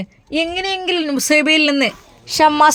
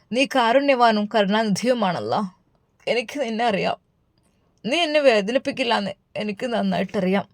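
softer, fading prayer to God; hushed prayer; 5 dB quieter than usual. Acted. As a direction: pray almost under your breath. Tearful prayer, growing softer. (പതിഞ്ഞ ശബ്ദത്തിൽ പ്രാർത്ഥന)

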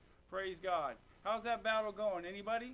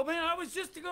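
scared outcry; 7 semitones higher, 4 dB louder, faster than usual. Acted. Scared believer cries out.

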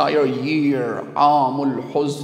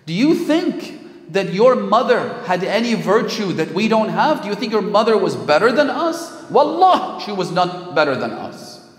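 raised, emphatic mock tirade, peaking on Wallah; retold screaming; 4 semitones higher, 3 dB louder than usual. Envious wife scolding Fatima about her mother, retold screaming. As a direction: berate her without a full scream. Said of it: "was screaming at Fatima Zahra".

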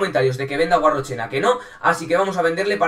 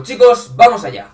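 excited call; 7 semitones higher, 11 dB louder than usual. Real, not acted. Hype call before the match.

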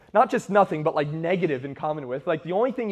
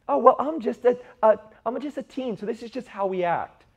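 lightly voiced teenager, higher pitch; mock teen excuse; 6 semitones higher than usual. Preacher voices a teen excusing their behavior, lightly mocking higher voice. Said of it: "a teen something".

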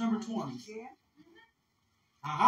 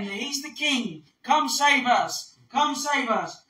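crowd hailing; 4 semitones higher, 4 dB louder, slower than usual. Acted. Voicing crowd hailing Jesus as king.

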